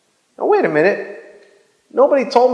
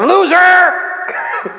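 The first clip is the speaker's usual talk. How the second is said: jeering insult; 10 semitones higher than usual. Retold or imitated. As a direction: fling the word like a taunt. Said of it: "the other voice comes and says".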